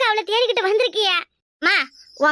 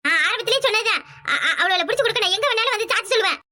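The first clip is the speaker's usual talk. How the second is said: laughing. Acted. Eager informer laughing while speaking.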